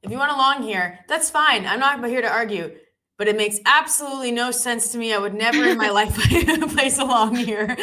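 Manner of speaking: high, loud mocking imitation; mocking impression. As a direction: parody her friend's voice, laughing. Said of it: "You're like".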